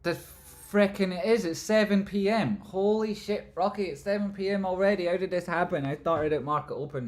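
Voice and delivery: real astonished yell; shocked outburst. Real, not acted. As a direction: shout in sudden alarm at the time. Shock at time.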